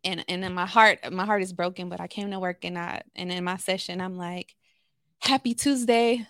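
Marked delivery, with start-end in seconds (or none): 5.2-6.2 bright, upbeat, higher and louder hello; forced cheerful greeting; chipper greeting. Retold or imitated. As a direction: put on a cheerful work face. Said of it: "this is me showing up as my work persona".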